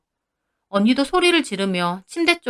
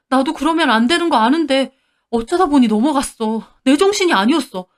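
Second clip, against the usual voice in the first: higher, louder pleading man's voice; begging husband; 3 semitones higher, 3 dB louder than usual. Acted. Husband caught cheating begs his wife, higher pleading voice. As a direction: beg for forgiveness in a panic. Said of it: "막 빌더라고요".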